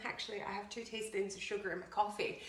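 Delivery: shy and coy. Retold or imitated. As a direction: imitate someone admitting it a little embarrassed. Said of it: "A lot of people get so shy and coy and go".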